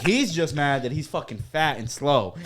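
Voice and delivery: slow playful roast of a friend; mock insult. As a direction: drag out the roast. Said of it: "I'd be like".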